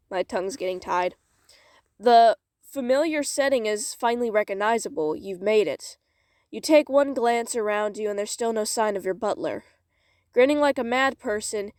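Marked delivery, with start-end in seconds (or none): 2.0-9.6 measured, expressive storytelling; story narration. Acted. Reads story aloud. 10.3-11.7 theatrical storybook delivery with plenty of air; airy, expressive reading. Acted. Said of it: "so much, like, airiness and expression".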